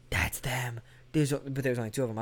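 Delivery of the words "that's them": stunned whisper; hushed disbelief. Retold or imitated. Telling his babe he spotted the band, stunned whisper. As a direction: whisper it in amazement.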